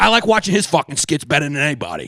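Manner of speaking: lightly voiced comedian impression; a hint of his voice, praising the skits; Shane Gillis. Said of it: "we'll do it in his voice".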